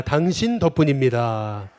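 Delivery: preacher leading a call-and-response; slow call to repeat. Shown as a demonstration. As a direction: declaim it slowly so everyone can repeat it. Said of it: "또 해보겠습니다".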